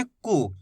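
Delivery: कु said short, vowel not stretched; short u sound. Shown as a demonstration. Teacher showing students a short कु. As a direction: say कु quickly with a brief u. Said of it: "ज्यादा खींच के नहीं करना".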